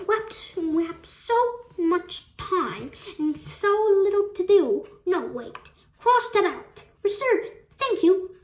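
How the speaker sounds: high-pitched, eager outburst; excited cry. A narrator's reading. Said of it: "he cried".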